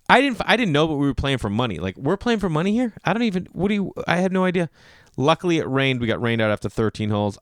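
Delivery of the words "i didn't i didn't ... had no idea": higher-pitched flustered defence; mock protest. Comedian protesting to his annoyed golf partner, mock flustered.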